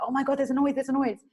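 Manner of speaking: hammed-up little panic; frightened. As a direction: act out alarm to someone on the phone. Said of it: "they feel frightened".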